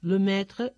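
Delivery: "le" with a short rounded French e; French petit e. Shown as a demonstration. Teacher models the article "le" with its French e sound. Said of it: "la E de petite E".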